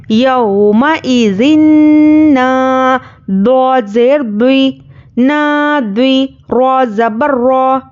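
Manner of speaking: slow, measured sing-song spelling drill; Qaida recitation. Shown as a demonstration. Teacher spelling out Arabic words for learners, slow chant. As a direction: recite each letter and vowel mark slowly for students.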